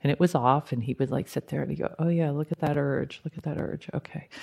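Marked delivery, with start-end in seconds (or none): 2.0-4.3 imitating quiet self-talk, trailing softer; retold self-talk. Practitioner talking himself through an urge, muted self-talk. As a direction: murmur it as if privately noting an urge.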